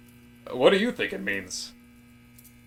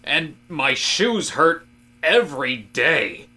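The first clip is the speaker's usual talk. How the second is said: louder, rising indignation; worked-up rant; 2 semitones higher, 5 dB louder than usual. Acted. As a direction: rant as if the tie is an insult. Indignant rant about wearing ties.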